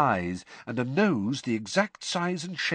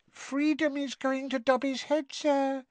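very high squeaky voice, a touch of sorrow; disapproving and sorry for her friend; sad elf squeak. Acted. Winky lamenting Dobby's freedom to Harry, sad squeak. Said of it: "said Winky sadly".

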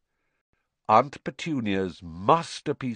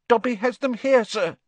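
high, pleading elf voice; squeaky house-elf; 13 semitones higher, 4 dB louder than usual. A narrator's reading. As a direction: beg like a timid little elf.

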